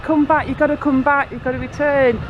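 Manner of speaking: guard yelling at the shopper to come back, mild mock yell; retold yelling. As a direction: call someone back urgently. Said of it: "this dude was yelling at me".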